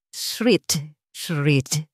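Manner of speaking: pen scratching. A narrator's reading. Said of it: "tunog ng ballpen na gumuguhit".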